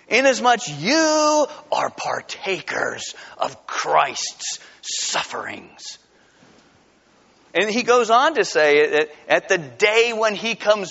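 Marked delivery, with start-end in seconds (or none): 0.1-6.0 weighty scripture reading. Acted. Solemn slow end of quoted verse.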